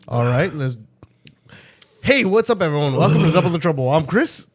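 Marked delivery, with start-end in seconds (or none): 2.0-4.5 second take, less lifted; host intro retake. Acted. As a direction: steadier retake of the greeting. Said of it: "Let's do it again".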